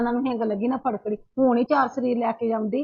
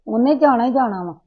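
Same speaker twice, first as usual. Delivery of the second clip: angry shout; 7 dB louder than usual. Acted. Mother repeats her claim, now shouting.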